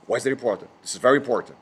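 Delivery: low, emphatic English-teacher impression; deep-pitched, insistent instructor voice; Miles. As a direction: imitate a teacher drilling a key point. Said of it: "Lembrei do Miles".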